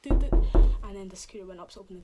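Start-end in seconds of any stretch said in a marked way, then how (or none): 0.0-0.5 two loud, short knocking noises; imitated door knock. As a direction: voice a sharp double knock. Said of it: "a little knock on the door".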